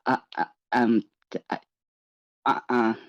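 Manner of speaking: halting, stammered false starts; tongue-tied stammering; nervous stutter. Acted. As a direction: trip over the first word, too scared to finish. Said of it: "and he stutters".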